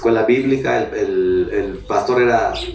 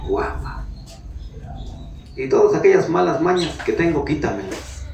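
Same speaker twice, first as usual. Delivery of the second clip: a man begging God for three things; retold prayer; 3 semitones higher than usual. Pastor retells his tearful prayer, lightly heightened. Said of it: "en oración le dije".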